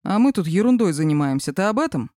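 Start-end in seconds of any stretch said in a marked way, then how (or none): none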